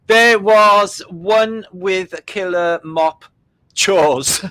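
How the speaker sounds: slow, high, laughing. Real, not acted. Host breaking up over the killer mop book. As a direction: fight through laughter. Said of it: "laughing build".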